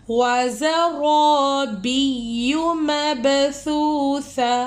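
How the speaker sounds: slow melodic tajweed chant; Quran recitation. Acted. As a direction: draw out each verse in measured chant.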